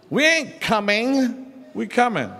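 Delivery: "coming" said without the final g sound; dropped final consonant. Shown as a demonstration. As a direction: clip the end of "coming". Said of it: "in our African rules".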